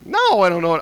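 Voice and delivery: loud, testy "no"; retold bad mood. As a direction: answer curtly back with some force. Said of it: "not in a good mood".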